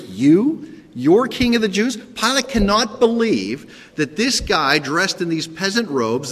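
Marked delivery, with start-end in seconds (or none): 0.1-2.0 disbelieving, pitched higher; incredulous. Shown as a demonstration. Preacher repeating Pilate's words, incredulous. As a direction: scoff at the very idea. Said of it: "the words come across in the Greek".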